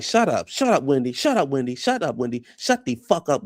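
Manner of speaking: repeated, insistent mock shushing; retold snapping. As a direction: imitate a mother cutting her daughter off. Mother silencing Wendy, retold.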